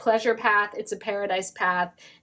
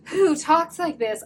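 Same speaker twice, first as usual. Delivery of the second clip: mock voice; 6 semitones higher than usual. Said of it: "mimicking your voice".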